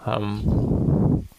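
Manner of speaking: talking with a phone between teeth; phone held in teeth. Real, not acted. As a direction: speak around a phone in your mouth. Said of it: "if I'm holding the phone in my mouth".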